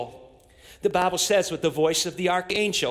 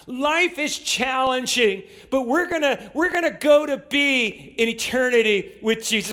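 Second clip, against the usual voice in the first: fervent preaching; 5 semitones higher than usual. Acted. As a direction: lift up the discouraged with fervour. Preaching at full force.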